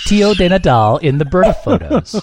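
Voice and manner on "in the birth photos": laughing. Real, not acted. Laughing at his own joke.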